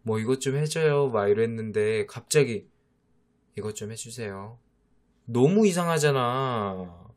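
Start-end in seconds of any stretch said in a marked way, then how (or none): 0.2-1.1 bright, smiling ask, a bit higher; friendly smiling favour; smiling request. Retold or imitated. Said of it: "웃으면서". 3.6-4.6 stiff polite ask, much softer; curt formal favour; cold formal request. Retold or imitated. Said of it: "화난 사람 같잖아".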